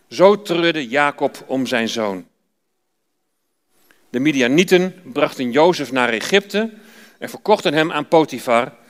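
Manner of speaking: measured, even Bible-reading voice; reading Genesis aloud in church; scripture reading. Acted. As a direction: read the passage to the congregation.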